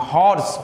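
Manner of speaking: हॉर्स sounded out with a clear opening "ho"; demonstrating the H sound. Shown as a demonstration. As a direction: say हॉर्स emphatically, leaning on the initial H. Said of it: "हो का उच्चारण है". (हॉर्स की शुरुआत में "हो" पर ज़ोर देकर)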